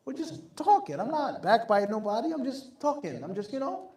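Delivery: a hint of a carefree gossiper waving away the sin; dismissive gossiper. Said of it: "It's looked at as being, you know, adi".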